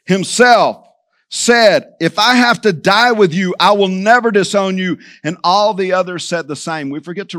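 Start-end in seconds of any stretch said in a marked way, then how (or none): 2.0-5.0 firm, punched vow on "I will never disown you"; emphatic insistence. Acted. Peter insisting to Jesus, emphatic "I will never disown you". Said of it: "The scripture says emphatically".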